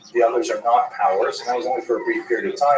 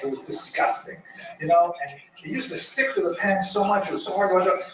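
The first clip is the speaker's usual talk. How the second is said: angry daughter; 5 semitones higher than usual. Acted. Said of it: "the daughter gets so angry".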